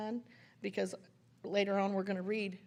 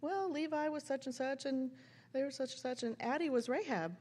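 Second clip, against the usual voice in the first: higher, lightly singsong listing; imitated chatty mom; 5 semitones higher than usual. Mom telling her mother about costumes, chatty listing. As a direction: imitate a mom casually reeling off names. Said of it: "And she goes".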